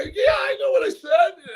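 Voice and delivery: high whiny cracking wail; male whiny voice. Retold or imitated. Coach whining to the translator after his promise. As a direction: whine like a man who got caught. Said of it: "the male whiny voice".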